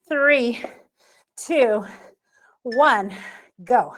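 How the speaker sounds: loud coach call to go; loud countdown call. Real, not acted. Calling countdown to start.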